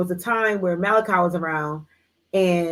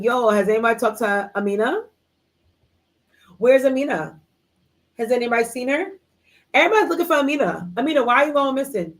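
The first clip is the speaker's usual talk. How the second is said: higher-pitched, quickening mock search; questioning concern; 4 semitones higher than usual. Friends looking for missing Amina, acted concern. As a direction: imitate friends asking around, pitch climbing.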